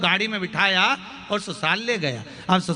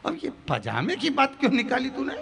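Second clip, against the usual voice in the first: retold anger; 8 semitones higher, 4 dB quieter than usual. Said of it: "फिर गुस्सा आ गई".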